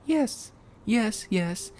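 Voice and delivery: high-pitched little cartoon pig; high cartoon voice, last word drawn out; Peppa. A narrator's reading. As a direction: answer in a high, piping child-character voice. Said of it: "Peppa said".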